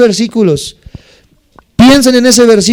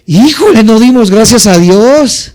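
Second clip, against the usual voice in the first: sudden realization; 3 dB louder than usual. Retold or imitated. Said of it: "de repente se acuerda".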